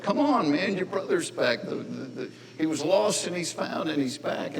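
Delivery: a hint of a pleading father; coaxing father. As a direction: gently talk the sulking son round. Dad pleading with pouting son.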